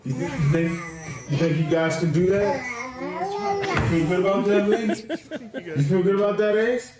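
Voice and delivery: lightly voiced dad talking to his sons; a hint of a cheery father at breakfast; mock dad pep talk. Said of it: "I'm gonna go ahead and try something".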